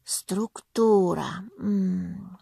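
very slow, drowsy СТРУКТУРА; sleepy musing, trailing into a hum; yawning. A narrator's reading. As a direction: stretch the word through a yawn. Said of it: "і собі позіхаючи".

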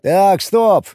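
firm sharp interruption; decisive stop. Acted. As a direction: slam the brakes on the talk. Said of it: "решительно сказал скрипач".

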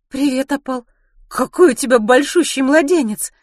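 high, loud, gushing greeting; excited admiration. Acted. Ruth admires Opal's enormous baby, high and excited. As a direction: coo over the baby with delight.

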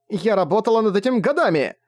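high, choked cry of frustration; tearful outburst. A narrator's reading. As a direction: near tears, overwhelmed. Тайвин всхлипывает в отчаянии.

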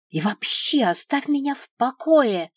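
high, loud, heated demand; blurted outburst. A narrator's reading. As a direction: burst out, pushing the person away. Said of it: "выпалила я".

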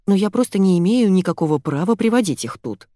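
plain reading voice

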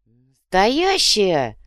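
very slow, drawn-out marvel; amazed. Acted. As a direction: savor the word in awe. Amazed at treasure.

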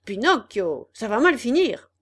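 loud menacing warning; threatening. Acted. Boys warn the puppet, loud menace. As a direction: growl a warning at him.

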